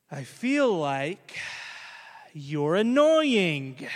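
put-on slow, deliberate little-girl voice; child's blunt complaint. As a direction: drag it out like a kid told to share feelings. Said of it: "So then Emma goes".

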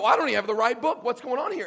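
fast, loud, high bewilderment; confused reader flipping the pages; baffled outcry. Retold or imitated. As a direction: blurt out as if holding the wrong book. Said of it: "you go".

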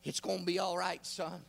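low, soft comfort to a son; tender reassurance. Acted. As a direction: soothe him quietly like a father. God reassuring Samson.

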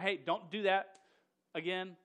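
loud mock warning. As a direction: wag a finger at them out loud. Council warns the apostles.

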